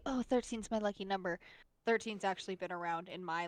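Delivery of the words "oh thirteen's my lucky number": airy, mocking trendy-girl tone. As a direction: tease the cliché lightly. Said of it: "like, that trendy".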